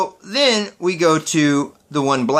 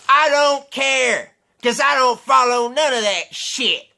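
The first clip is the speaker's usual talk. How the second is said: redneck impression; 6 semitones higher than usual. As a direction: drag out the words like a shrugging redneck. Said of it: "he kinda sounded like this".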